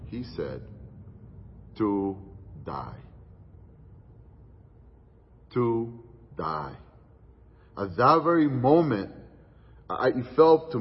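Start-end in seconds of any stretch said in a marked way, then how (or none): 1.8-6.8 quiet but firm, each word set apart; a brother's quiet, firm two-word answer; soft, firm voice. Retold or imitated. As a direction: say it softly with no give at all. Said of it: "with a soft and a very firm voice".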